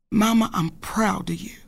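whispered tenderly; husband's whisper. Retold or imitated. Wife retelling her husband's praise, whispered. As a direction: breathe it out like a secret to her. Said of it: "and that king says to me".

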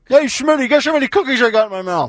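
high, fast goofy pitchman voice; commercial guy voice. Retold or imitated. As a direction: ham it up like a TV ad character. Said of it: "I'm like that guy from the Verizon commercial".

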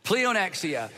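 Pleonexia spoken slowly as plee-oh-NEX-ee-uh; Greek word demo. Shown as a demonstration. Preacher teaching the congregation the Greek word Pleonexia, clear demo. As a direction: model Pleonexia for the congregation to repeat. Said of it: "I want us to say it together".

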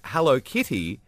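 "Hello, kitty" said in his accent, kitty close to cutie; Hello kitty in own accent. Shown as a demonstration. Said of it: "in my accent sounded like".

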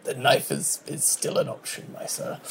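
quiet threat. Acted. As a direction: let the threat sink to almost nothing. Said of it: "and he's like".

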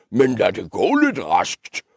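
mild troll grumble; lightly voiced impatient troll; grumbling troll. Troll hurrying the little goat along, mildly grumbly. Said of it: "brummede trolden".

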